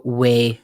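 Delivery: "way" for oui, opened to an eh vowel; French "way". Shown as a demonstration. Teaching casual French yes, "way" with open vowel. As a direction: say "way" instead of a neat "we". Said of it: "You know how they say "yeah" in French".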